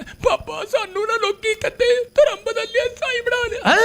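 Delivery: very high, weepy Punjabi wail; mock crying. Preacher imitating village women complaining to Papa, mock sobbing. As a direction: imitate a tearful woman pleading. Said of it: "रो रही है".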